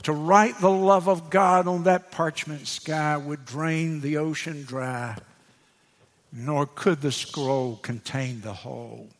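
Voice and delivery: hushed verses, trailing off at line ends; hymn recitation. Acted.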